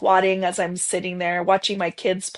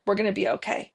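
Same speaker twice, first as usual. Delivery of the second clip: a touch softer, gently repeating We're gonna be okay; soft reassurance; 6 dB quieter, much faster than usual. Retold or imitated. Mother soothing her newborn son in the forest, softly reassuring. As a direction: hush the line like soothing a newborn. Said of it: "I was assuring him".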